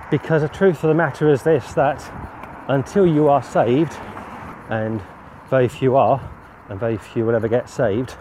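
a hint of pulpit preaching. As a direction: preach it out with rising conviction. Preaching the message to camera.

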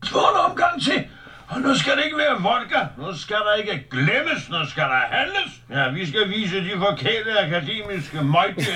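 put-on drunken rally. Drunk rallying cry acted.

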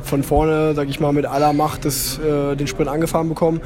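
recorded over the phone; phone recording. Real, not acted. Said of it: "sorry für die Tonqualität".

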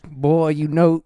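a hint of a mean hillbilly dad drawl; lightly voiced backwoods father scolding his boy. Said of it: "a mean hillbilly dad".

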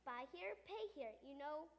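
upbeat used-car salesman pitch; radio commercial. Acted. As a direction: sell it like a radio ad. Used camel lot commercial.

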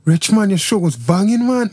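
loosely attempted Manchester accent. Shown as a demonstration. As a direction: have a rough go at Mancunian. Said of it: "do your Manchester accent".

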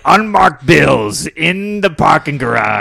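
swindler voice. Retold or imitated. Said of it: "He's like".

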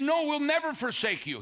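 high-pitched, emphatic vow of loyalty; insistent protest. Retold or imitated. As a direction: imitate disciples fervently protesting. Disciples insist they will stay loyal.

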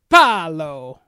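put-on weary, exasperated old aristocrat; Jeremy Irons impression. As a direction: sigh it out, fed up. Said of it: "that's my Jeremy Irons".

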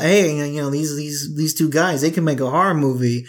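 nasal slick studio exec; movie producer voice. Retold or imitated. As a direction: pitch it like a sleazy producer. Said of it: "Is this your movie producer voice?".

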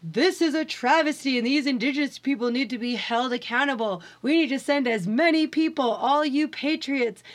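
rally the patriots like a pompous TV host; mock news anchor. Mocking a Fox News anchor.

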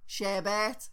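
"Sherbet" rhymed with Care Bear, "share-bet"; imitated "Sherbet", stretched as "share-bet". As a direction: mimic their "Sherbet" with an open "air" vowel. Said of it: "You're saying it like Care Bear".

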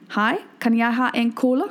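Icelander ordering in Danish, plain and polite; polite Danish order for a Coke. Shown as a demonstration. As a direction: show how you'd ask in Danish. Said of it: "here's how I would ask for a Coke".

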